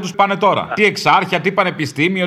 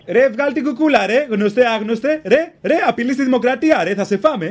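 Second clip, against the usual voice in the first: raised mock thug-cop rant; tough cop; 2 semitones higher than usual. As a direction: bluster like a bullying cop. Mocks cop persona on radio. (παρωδία μπάτσου που φωνάζει)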